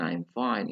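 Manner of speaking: "I'm fine" kept level; slightly flat intonation. Shown as a demonstration. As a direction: say "I'm fine" evenly, without lifting fine. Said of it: "itu yang sedikit datar".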